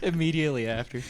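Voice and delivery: normal talking voice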